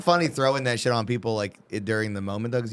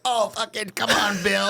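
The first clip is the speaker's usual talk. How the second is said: mock moaning woman; 10 semitones higher, slower than usual. Acted woman in bed.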